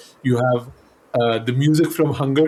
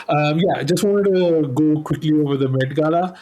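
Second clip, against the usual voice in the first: muffled, underwater sound; like talking from underwater. Real, not acted. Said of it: "you really sound like you're underwater".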